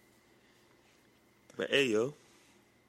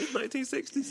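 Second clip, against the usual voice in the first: put-on high old-time announcer voice; Vince impression; 8 dB quieter than usual. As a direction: imitate a nineteen sixties commentator. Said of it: "exactly what Vince sounded like".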